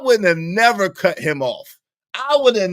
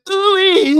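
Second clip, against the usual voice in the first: high, loud mock babble; exaggerated high-pitched mimicry; mocking imitation; 11 semitones higher, 5 dB louder than usual. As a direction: squeal it as a garbled impression. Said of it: "This nigga said".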